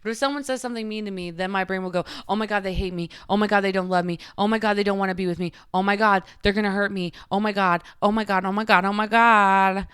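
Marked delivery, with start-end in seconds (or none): 2.3-9.9 spiraling, each "oh my God" more frantic; mock panic. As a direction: act out an anxious brain escalating. Acting out her panicking inner thoughts.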